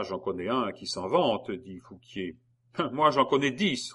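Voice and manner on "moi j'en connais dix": a short laugh, then a bold boast. Acted. Théodore answers the accuser boldly, laughing. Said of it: "reprit courageusement le citoyen Théodore".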